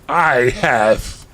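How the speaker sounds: lightly voiced pompous villain; a hint of mock menace; cruel villain answer. Voldemort answering the heroine, mildly mock-cruel. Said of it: "he answered cruelly".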